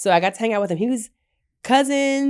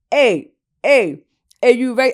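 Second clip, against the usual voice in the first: attempted put-on Bahamian accent; 3 semitones higher, 6 dB louder than usual. Retelling hearing someone call out while buying a coconut, imitating an accent. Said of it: "I don't know how to do the fucking accent".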